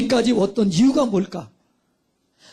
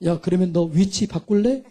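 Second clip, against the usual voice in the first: voice of God; 4 semitones lower than usual. Retold or imitated. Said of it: "하나님 뭐라고 그랬을까요".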